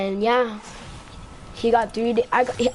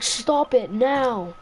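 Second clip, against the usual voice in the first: slow, spaced-out command; imitated firm teacher; much slower than usual. Teacher to the kid shoving her, slow and firm. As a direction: give each word its own weight.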